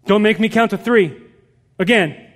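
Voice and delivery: mock stern parent's threat; parental threat. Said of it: "make threats".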